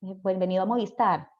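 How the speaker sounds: dancing Colombian lilt; Colombian accent. Shown as a demonstration. Teacher imitates Colombians for students, lilting Colombian accent. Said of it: "los colombianos que hablan todo así".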